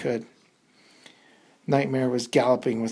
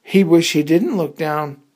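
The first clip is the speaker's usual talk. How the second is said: louder, higher alarm; dramatic reveal; 4 semitones higher, 10 dB louder than usual. A narrator's reading. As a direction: punch the danger.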